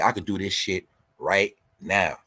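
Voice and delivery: slow it down to drive it home; slow, deliberate repeat. Shown as a demonstration. To his viewers, repeating his boast slowly and deliberately. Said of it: "Feel me?".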